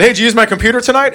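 high, pointed "Hey" to open; dad confronting son; stern dad question. Retold or imitated. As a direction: call him out on it. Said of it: "And I said".

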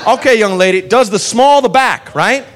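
put-on easygoing good-old-boy cop herding the crowd; lightly voiced cheerful southern cop. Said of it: "And he goes".

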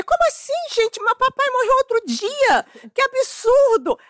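scandalised daughter reliving it; offended outrage. Retold or imitated. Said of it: "eu tava ofendidíssima".

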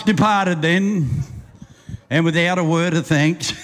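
rhythmic storyteller reading a ballad; bush poem recitation. Acted. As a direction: roll the verse out like a campfire yarn.

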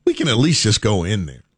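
high, swooping coaxing voice; acted husband's rising, tempting offer. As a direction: pitch it up to nudge someone gently. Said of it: "And you go".

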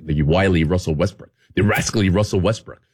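low, relish "rascally" and "wily"; warm-up tongue twister. Shown as a demonstration. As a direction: savour "the rascally Russell Westbrook". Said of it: "every morning before I did an appearance".

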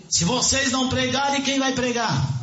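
high-pitched rhetorical question; urgent challenge. Acted. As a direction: throw the challenge at the congregation. Preacher voices challenge to congregation.

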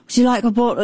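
light imitation of a polite British accent; a hint of a Birmingham English accent, offered kindly; a rock bassist's accent. Kind British rocker offering water, in a lightly mimicked British accent. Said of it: "in his accent".

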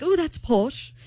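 put-on British accent on "posh"; amateur British impression. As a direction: imitate an impressed British man. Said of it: "You have a terrible British accent".

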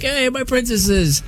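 high, slow gushing pet greeting; dog-talk voice. Shown as a demonstration. Owner greeting dogs at the door, high pet voice. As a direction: coo it way up high, drawn out. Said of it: "the way that I talk to my dogs".

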